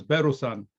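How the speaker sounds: "Beru-san" as Bell said the Japanese way; "Beru-san", Bell with an added u; Japanese pronunciation. Retold or imitated. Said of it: "So the kids said the L".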